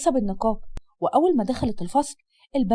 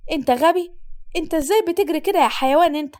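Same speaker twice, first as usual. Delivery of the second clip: angry outburst; 4 semitones higher than usual. Acted. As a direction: snap at the careless rider. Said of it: "بمنتهى العصبية".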